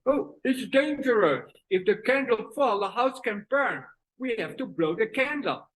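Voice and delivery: mother warning out of one side; mouth twisted right. Acted. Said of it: "Twisted to the right".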